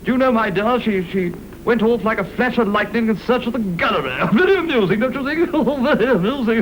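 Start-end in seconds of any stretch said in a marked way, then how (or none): 4.3-6.6 laughing. Acted. Laughs at own joke.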